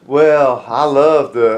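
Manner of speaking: put-on botched British accent with an Alabama twang; faltering fake British; British Bulldog. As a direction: try British and land in Georgia. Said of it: "Alabama accent".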